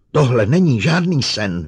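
cry out. A narrator's reading. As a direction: shout it in rising hysteria. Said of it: "vykřikla".

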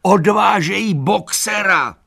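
frantic high yell; urgent shout. A narrator's reading. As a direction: scream the alarm across the yard. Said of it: "křičel".

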